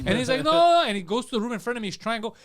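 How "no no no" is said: loud, high denials; acted-out frantic denial; imitating panicked intruder. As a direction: protest in mock panic.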